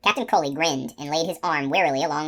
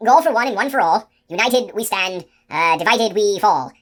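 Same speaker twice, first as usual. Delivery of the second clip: higher, loud giant shout; 5 semitones higher, 6 dB louder than usual. A narrator's reading. Giant shouting the motto at the sentry, loud and higher. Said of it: "the giant shouted".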